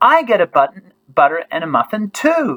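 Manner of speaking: excited exclamation with swooping pitch. Showing listeners how a sentence with an exclamation sounds, exclaiming the sentence. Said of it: "because it's got an exclamation, we go like this".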